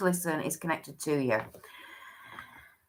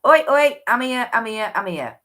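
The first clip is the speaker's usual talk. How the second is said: calling out; 3 semitones higher, 6 dB louder than usual. Retold or imitated. Voicing the spirits calling out.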